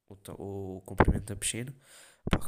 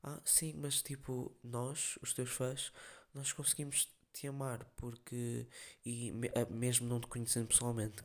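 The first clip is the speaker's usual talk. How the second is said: a hint of a whiny fan, lightly voiced; mock fan; 3 semitones higher, 5 dB quieter, slower than usual. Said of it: "a gaja vira-se".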